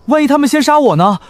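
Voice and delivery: high, worried question; alarmed what-if; anxious. Acted. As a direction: ask nervously, pitch rising with fear. Frightened helper asks about danger.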